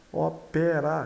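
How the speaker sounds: "ópera" with an open eh in the middle; "ópera" as o-PEH-ra, the mistaken way; open E, wrong. Shown as a demonstration. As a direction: say "ópera" with a wide eh vowel. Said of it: "Então fica E, e não é".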